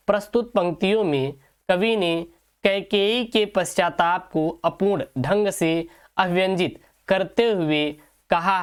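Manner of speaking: slow, measured dictation with pauses; answer dictation. Acted. Teacher reads the model answer for students to write, measured dictation. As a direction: dictate phrase by phrase, slowly.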